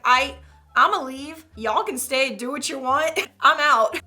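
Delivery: loud, hasty exit speech; bailing out loudly. Retold or imitated. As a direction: announce you're leaving, now. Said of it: "I'm gonna be like".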